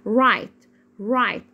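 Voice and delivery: "رايت" with the gh left silent. Shown as a demonstration. Teacher models "رايت" for the class, silent gh. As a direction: say "رايت" with no sound at all for gh. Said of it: "الجي والاتش هنا سايلنت ليترز".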